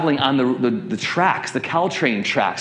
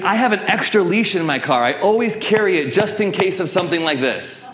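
higher-pitched voice of an eager helper; imitated helpful woman; 6 semitones higher than usual. Woman offering her spare leash, imitated helper. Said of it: "she's like".

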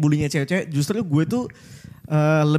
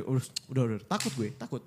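scared pleading; 6 semitones lower, 10 dB quieter than usual. Retold or imitated. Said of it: "gue takut banget sebenarnya gemeteran".

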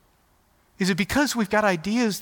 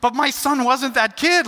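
laughing; 7 semitones higher, 4 dB louder than usual. Real, not acted. Laughing at own story.

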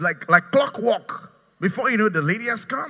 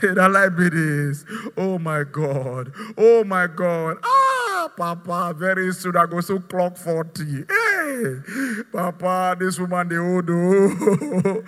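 wailing complaint; slower than usual. Retold or imitated. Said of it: "see, see, complaining".

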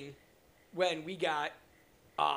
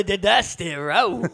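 wrestling promo; 4 dB louder, much slower than usual. Pretend. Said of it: "good old wrestling voice".

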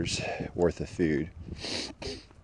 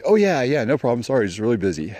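mock brush-off; 6 semitones higher, 5 dB louder, faster than usual. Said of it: "He's like".

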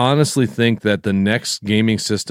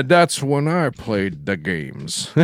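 single nerd voice; much slower than usual. Retold or imitated. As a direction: echo the nerd voice, slowly. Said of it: "you had that tone".

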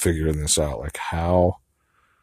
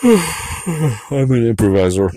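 mock proud; 6 semitones higher, 6 dB louder, slower than usual. Boasting half-jokingly about coping. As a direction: sigh then higher, louder, slow.

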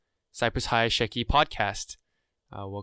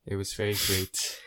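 nervous class president speech; 3 semitones lower, 3 dB quieter, slower than usual. Retold or imitated. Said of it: "You sound like like a s-, class presentation".

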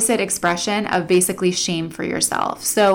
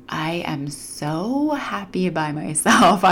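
slow contented musing; 2 semitones lower, 4 dB quieter, much slower than usual. Retold or imitated. Inner voice of content single.

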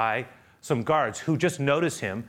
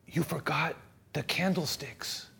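soft, slow bishop's kindness; gentle reminder; 5 semitones higher, 5 dB quieter, slower than usual. Acted. Bishop covering for the thief before the guards, gentle reminder. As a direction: say it softly and slowly, letting it land.

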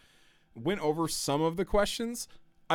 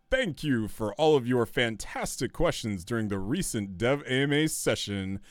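announcer voice; 4 dB louder than usual. Shown as a demonstration. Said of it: "Let me get my announcer voice going".

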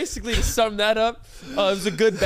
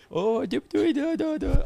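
mock gibberish mumble; 4 semitones higher, faster than usual. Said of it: "He's just like".

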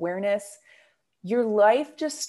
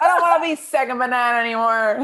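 high silly cartoon voice; squeaky little henchman; minion voice; 4 semitones higher, 8 dB louder than usual. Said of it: "You sound like a minion".

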